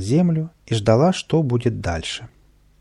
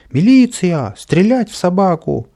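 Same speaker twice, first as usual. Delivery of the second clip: high, loud call for help; shouting; 9 semitones higher, 7 dB louder than usual. A narrator's reading. Boy up a pole calling the police, shouting. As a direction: panicky yell from above. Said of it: "закричал сверху Каприска".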